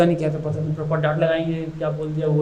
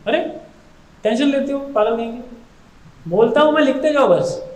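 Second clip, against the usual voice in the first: God reassuring; 5 semitones higher than usual. Retold or imitated. God reassures Baladeva in dream.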